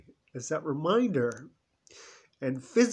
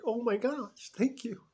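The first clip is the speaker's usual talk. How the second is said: overjoyed thanks; 8 semitones higher than usual. Retold or imitated. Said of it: "she just was like".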